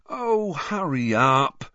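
slow, whiny complaint; moaning. Acted. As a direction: groan it out impatiently. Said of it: "Ron moaned".

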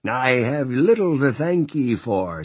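stern Sister Mary. Acted. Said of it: "she said with no preamble".

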